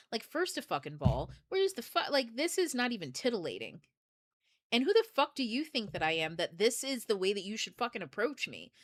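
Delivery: imagine firing back at an annoying voicemail; mildly exasperated, incredulous challenge; acted irritation. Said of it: "I'd have been fucking irritated".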